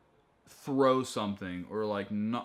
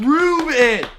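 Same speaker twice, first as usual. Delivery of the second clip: much higher, far louder challenge; defiant shout; 15 dB louder than usual. Real, not acted. Co-host disputes claim that he cussed last week, defiant shout. Demanding proof in cussing argument.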